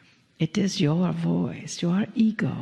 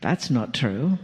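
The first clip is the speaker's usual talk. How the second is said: doubting inner voice; 6 semitones lower than usual. Retold or imitated. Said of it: "a little voice inside of your head that says".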